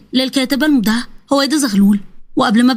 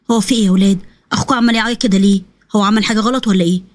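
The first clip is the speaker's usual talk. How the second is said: put-on lower, concerned older woman; an anxious grandma asking what's wrong; grandmother; 3 semitones lower than usual. Grandmother asking the children why the boy cries, lower voice.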